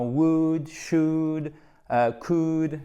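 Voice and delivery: "would", "should", "could" said with no L sound; silent L. Shown as a demonstration. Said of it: "Le L ne se prononce pas". (« would, should, could » sans prononcer le L)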